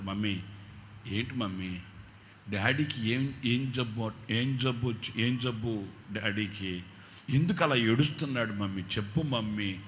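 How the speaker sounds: put-on a child begging mother for answers; worried child. Children asking mother why daddy cries, softly worried.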